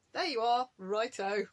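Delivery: unfazed now. Retold or imitated. Her present self answering his car park shout, unfazed. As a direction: answer back without any shyness. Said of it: "And now I'm like".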